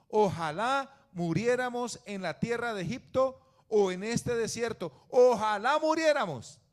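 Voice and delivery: loud, fervent reading from Numbers; preacher thundering out a Bible passage; loud scripture reading. Acted. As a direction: proclaim the verses at full force to the congregation. Reads Numbers 14 loudly.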